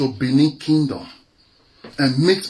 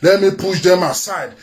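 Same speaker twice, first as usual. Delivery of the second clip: mock governor's thoughts. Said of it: "What did they think?".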